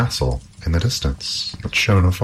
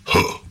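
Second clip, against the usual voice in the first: troll grunt. Acted. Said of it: "said the troll".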